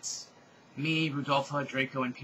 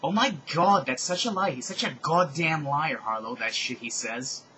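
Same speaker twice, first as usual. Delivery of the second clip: exasperated outburst; 6 dB louder than usual. Acted. Harlow gets told he's a liar, exasperated. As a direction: vent with emphatic disgust. Angry character's quoted outburst.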